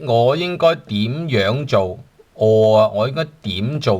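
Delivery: 我應該點樣做 said slowly, each word separate; slow teacher demo; slow model phrase. Shown as a demonstration. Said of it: "You can say".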